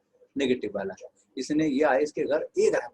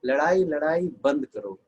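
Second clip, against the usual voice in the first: peacemaker plea; 3 dB louder, slower than usual. Acted. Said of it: "और आकर के क्या बोलती है".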